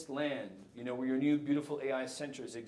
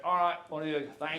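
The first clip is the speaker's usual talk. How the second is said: louder, deliberately bad Australian accent; 2 semitones higher, 6 dB louder than usual. Keynote speaker imitating an Australian host, in a bad Australian accent. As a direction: have a go at a rough Australian accent. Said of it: "I'll do a bad Australian accent for you".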